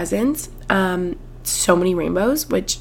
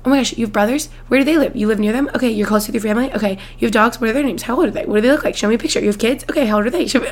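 rapid-fire eager questions; 2 semitones higher, faster than usual. Retold or imitated. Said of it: "we're so overwhelming".

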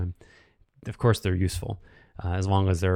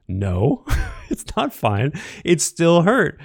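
higher and louder, insisting it still hurt; emphatic; 7 semitones higher, 4 dB louder, slower than usual. Real, not acted. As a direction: push back hard, voice rising. Rejecting the excuse, heated.

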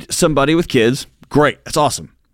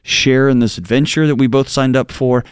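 a wife telling her husband she's scared, lower and hushed; scared plea; 3 semitones lower than usual. Shown as a demonstration. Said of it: "sit down and say".

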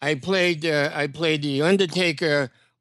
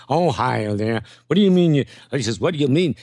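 Crooner voice. Retold or imitated. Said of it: "I think the singer was a".

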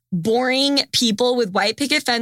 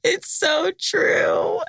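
laugh-crying; 5 semitones higher, much slower than usual. Real, not acted. Laughing through tears at family joke.

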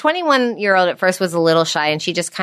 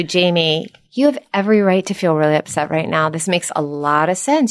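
validating and calm. Shown as a demonstration. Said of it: "What if I said to you".

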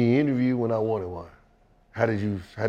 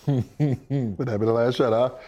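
slow, put-on taunting reporter; mock reporter voice; slower than usual. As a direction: drag it out like a smug journalist.

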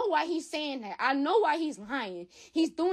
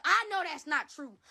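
near tears; 2 semitones higher than usual. Real, not acted. Crying about son.

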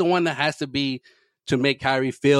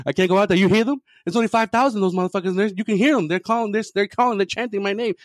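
higher, panicky mock pleading; 6 semitones higher than usual. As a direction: play a scared player about to go on court. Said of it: "Kyrie's having, like, a panic attack".

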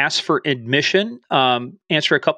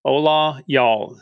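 Southern Spanglish; much slower than usual. Shown as a demonstration. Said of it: "That's the Southern way".

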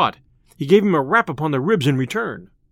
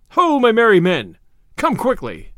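loud, higher call to men far off; 5 semitones higher, 4 dB louder than usual. A narrator's reading. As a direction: summon them across the woods. Robin calls his men from forest.

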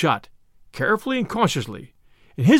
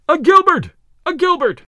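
high, loud acclaim; crowd cheer; 10 semitones higher, 6 dB louder than usual. A narrator's reading. Crowd hailing the archer after his shot, cheering.

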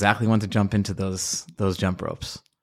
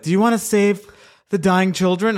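higher, mock chirpy canvasser pitch; 9 semitones higher than usual. Mocking a Whole Foods canvasser, higher chirpy pitch. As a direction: imitate the clipboard guy outside Whole Foods. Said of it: "the idiot's there with the clipboards".

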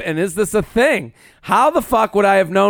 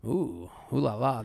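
put-on French accent; 6 semitones lower, 13 dB quieter than usual. Mock French reaction.

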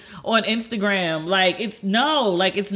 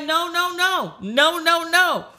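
high, quick insistent denials; protesting dad; 9 semitones higher, much slower than usual. Retold or imitated. Dad denying he was a married bachelor, hurried protest. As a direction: wave it off in a hurry. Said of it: "And he was like".

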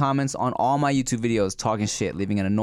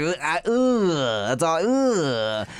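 stunned speechless; 5 semitones higher, much slower than usual. Retold or imitated. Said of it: "I was like".

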